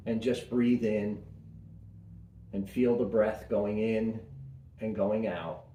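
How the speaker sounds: calm meditation voice with long pauses; guided meditation. Acted. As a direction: guide listeners gently inward, unhurried.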